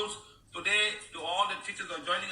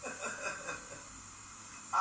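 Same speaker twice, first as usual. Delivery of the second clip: laughing teasing; 5 dB quieter than usual. Real, not acted.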